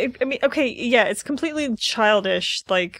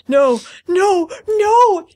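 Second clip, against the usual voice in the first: loud, much higher, fake crying no; mock wailing; 10 semitones higher, 8 dB louder, much slower than usual. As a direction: ham up a weird wail. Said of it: "doing some sort of weird".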